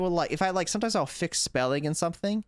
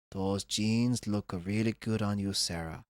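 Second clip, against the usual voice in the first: bored monotone; 6 semitones lower, 3 dB quieter than usual. Retold or imitated. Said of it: "And all the kids are like".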